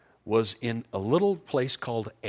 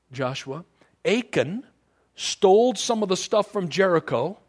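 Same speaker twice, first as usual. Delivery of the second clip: higher, louder stern rebuke; stern God voice; 7 semitones higher, 4 dB louder than usual. Retold or imitated. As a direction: lay out the charge as an angry God. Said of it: "He said".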